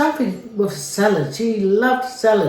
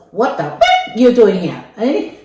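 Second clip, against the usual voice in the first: louder, sharp swearing challenge; a louder furious what the f- eh; angry swearing; 5 dB louder than usual. Retold or imitated. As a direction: confront the intruder with a hard, swearing bark. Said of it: "swearing and that".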